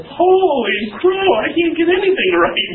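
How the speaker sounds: high, loud, drawn-out "holy crow" lament; exasperated outburst. Retold or imitated. Pastor retelling his reaction to a harsh critique, exasperated. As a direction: throw up your hands in mock despair.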